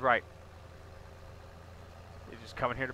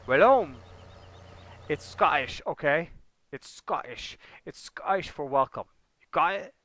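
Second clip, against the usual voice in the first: louder, over-the-top insisting it's Scottish; hammed-up know-it-all pushing back; mock insistence; 4 semitones higher, 6 dB louder than usual. Streamer to chat about the Scottish name, mock insistent.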